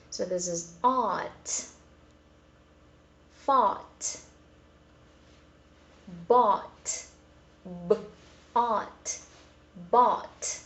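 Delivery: ought, fought, bought said with an open American ah, /ɑt/, each word drawn out; American ought sound. Shown as a demonstration. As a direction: read ought, bought, thought with a broad American ah. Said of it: "the American pronunciation".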